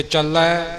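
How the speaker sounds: ਚੱਲੈ with a doubled l; weighted double l in ਚੱਲੈ; heavy consonant. Shown as a demonstration. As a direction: lean on the l, "chal-lai" for ਚੱਲੈ. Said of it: "ਇਹ ਥੋੜ੍ਹਾ ਭਾਰਾ ਹੋਵੇਗਾ".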